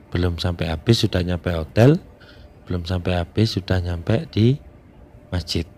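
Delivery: talking around a cigarette; cigarette in mouth. Real, not acted. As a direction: cigarette between the lips while speaking. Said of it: "saya sambil ngerokok".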